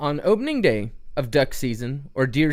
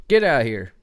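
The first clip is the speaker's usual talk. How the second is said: louder acted dismissal; mock rebuff; 5 dB louder, faster than usual. Hunter to a stranger at the blind door, mock brusque rebuff. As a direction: lightly send an intruder packing. Acts sending the intruder away.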